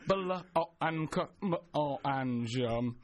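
blancmange broken into separate letter sounds; sounding it out. Shown as a demonstration. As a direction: spell blancmange out sound by sound, haltingly. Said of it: "sound it out".

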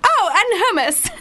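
giggling through the words; laughing quote. Retold or imitated. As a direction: say it while laughing high. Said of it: "I was just like".

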